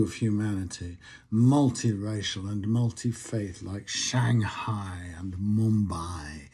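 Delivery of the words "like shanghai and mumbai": slow hushed whisper; secretive whisper. Acted. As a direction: breathe the names out slowly. Hushed aside mid-list.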